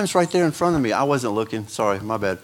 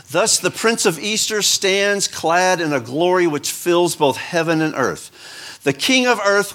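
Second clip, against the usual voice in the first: reading a sermon aloud; 2 semitones higher than usual. Acted. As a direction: lift it like a pulpit reading, measured and grand. Reads Krummacher quote aloud.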